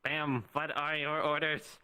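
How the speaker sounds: slow, stiff robot voice. Acted. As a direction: deliver it like a robot soldier. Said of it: "You don't have to do robot voice".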